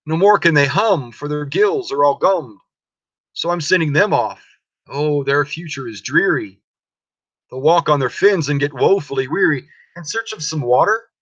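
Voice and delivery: a lightly voiced, scolding Lorax; Lorax with his dander up. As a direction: lecture the Onceler about his mess, annoyed. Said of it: "his dander was up".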